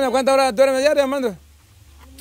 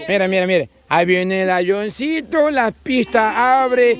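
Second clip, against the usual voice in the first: put-on feeding a baby; 3 semitones higher, slower than usual. Here comes the airplane spoon.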